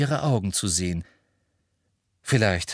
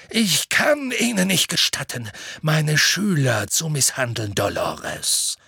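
high, forceful rebuke falling away; angry; 6 semitones higher than usual. A narrator's reading. Dumbledore forbids Umbridge to manhandle students, angry. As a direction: start high in anger, come down sternly. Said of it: "zum ersten Mal wirkte er zornig".

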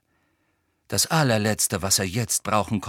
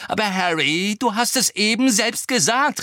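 raised, exasperated call; grim insistence; 11 semitones higher, 5 dB louder than usual. A narrator's reading. Hermine holding Harry to his own words, grim. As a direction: throw it back at him grimly. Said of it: "rief Hermine grimmig".

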